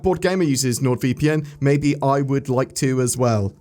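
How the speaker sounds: slow, even robot voice. Acted. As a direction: say it like a stiff robot. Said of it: "I said that like a robot".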